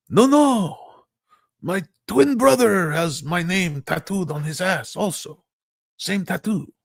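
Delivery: overplayed soap-opera excuse; denying husband. Husband denies in acted telenovela.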